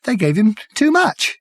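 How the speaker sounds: high, trembling whimper; a frightened, whimpering madman. Acted. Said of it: "he said in a tiny whimper".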